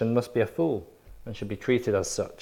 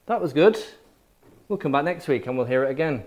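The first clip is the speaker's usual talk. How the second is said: higher, mock-polite "that's interesting"; polite churchgoer praise; 4 semitones higher than usual. Preacher mocks churchgoers who praise but never believe, higher and light. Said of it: "they might say".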